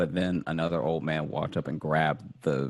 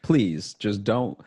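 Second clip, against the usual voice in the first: desperate pleading; 4 semitones higher, 4 dB louder than usual. Retold or imitated. Pleading with bank on phone.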